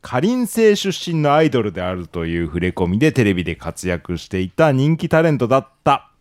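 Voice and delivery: measured reading of a puzzle's solution; game master's formal narration; story narration. A narrator's reading. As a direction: read the revealed truth aloud, deliberately.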